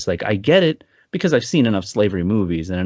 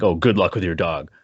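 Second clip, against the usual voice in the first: sarcastic; 5 semitones lower than usual. Shown as a demonstration. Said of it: "I wasn't like".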